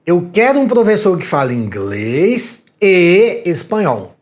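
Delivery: slow, insistent, stress on "quero"; "quero" pushed hard, rest paced slowly; demanding boss. Shown as a demonstration. School owner demanding a bilingual teacher, slow and insistent. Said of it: "Veja que a frase tem um E".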